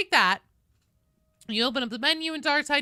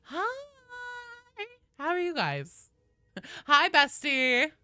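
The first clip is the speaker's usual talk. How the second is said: put-on Valley Girl voice; 8 semitones higher, much slower than usual. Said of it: "The Valley Girl voice".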